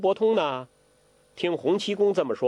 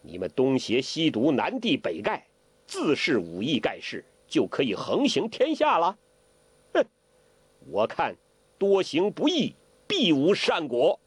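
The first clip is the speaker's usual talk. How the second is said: mild angry retort. Acted. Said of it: "当下大声地说".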